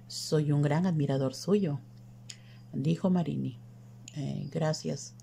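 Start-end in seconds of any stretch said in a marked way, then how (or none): 4.1-5.1 soft, slow, awkward thanks; understated uncomfortable near-whisper; uneasy murmur. A narrator's reading. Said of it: "susurró Bruno Müller, incómodo".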